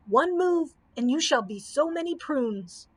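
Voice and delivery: put-on old wizard threatening the people from Oz; angry shrill threat. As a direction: snap the warning at them. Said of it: "shrilled the angry old man".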